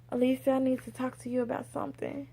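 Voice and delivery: softly imitated hesitant approach; hesitant employee. Employee quietly asking her boss for a talk, hesitant. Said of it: "but the way she said it".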